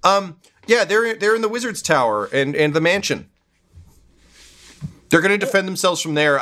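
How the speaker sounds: high, eager shopkeeper voice; lively townsfolk voice. Acted. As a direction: pitch it up as a greedy local. NPC chats with player.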